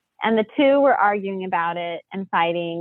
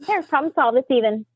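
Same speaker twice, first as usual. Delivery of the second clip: retold scolding; 5 semitones higher than usual. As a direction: play the fed-up mom laying down the law. Mom scolding the arguing kids.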